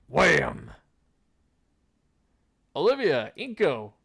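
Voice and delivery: frightened scream. Acted. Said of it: "we're both screaming like bitches".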